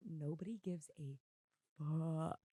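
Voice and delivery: whispered swear as an aside; conspiratorial whispered aside. Real, not acted. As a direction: drop to a whisper for the punchline.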